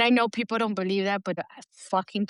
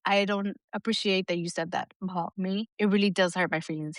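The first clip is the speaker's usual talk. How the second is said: calm normal tone. Retold or imitated. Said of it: "we could talk in a normal tone".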